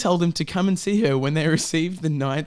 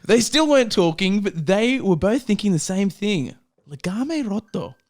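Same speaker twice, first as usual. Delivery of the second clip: dramatic reading; 4 semitones higher than usual. Acted. Dramatic reading, accent promised.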